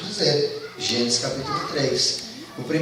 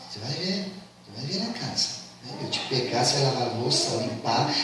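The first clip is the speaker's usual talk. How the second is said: hushed threat; 3 semitones lower, 6 dB quieter than usual. Acted. Wife threatening husband quietly.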